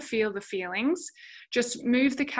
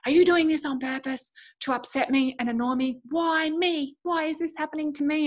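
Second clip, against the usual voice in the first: whiny meltdown; 5 semitones higher, 4 dB louder than usual. Retold or imitated. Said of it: "I'm stamping my foot and I'm starting to cry".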